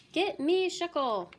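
high, loud, slow demand; loud command. Acted. President to his staff, loud slow command. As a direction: bark for the scientist.

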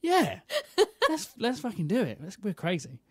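fired up for a crazy idea; excited. Retold or imitated. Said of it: "And I'm like".

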